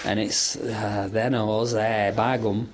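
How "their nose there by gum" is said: put-on Lowry accent. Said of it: "It's called a Lowry accent".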